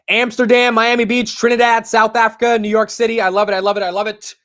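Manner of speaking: loud, high, steady roll call; calling out cities. Real, not acted. Host welcomes viewers from everywhere, calling out. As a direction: rattle off the places at a shout.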